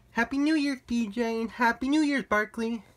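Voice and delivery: high, sweet voice for the dogs; talking to pets. Real, not acted. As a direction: coo the greeting to the pets. Wishes his pets happy New Year.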